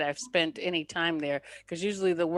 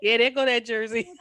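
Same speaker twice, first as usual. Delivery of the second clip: husband's line, laughed out; gleeful gotcha through a chuckle; teasing through laughter; 3 semitones higher, 5 dB louder than usual. Retold or imitated. Husband catching his wife's Jersey accent, laughing. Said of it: "'Cause he goes".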